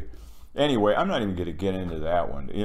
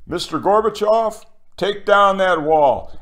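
Reagan impression; 9 semitones higher, 7 dB louder than usual. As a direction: proclaim it again like Reagan. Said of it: "Ronald Reagan said".

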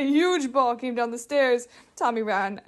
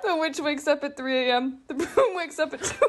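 giggling; 3 semitones higher than usual. Real, not acted. Child giggling through her story.

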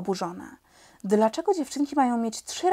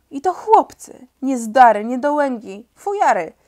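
louder, contemptuous jeer; scornful outburst; 3 semitones higher, 8 dB louder than usual. Acted. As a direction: spit out the insults with disdain. Klu Klu scorns the fighting boys.

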